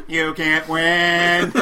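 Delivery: very slow, drawn-out robotic line; slow robot wife. Pretend. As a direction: stretch each word like a machine. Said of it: "his robot wife will come out and tell him he can't win".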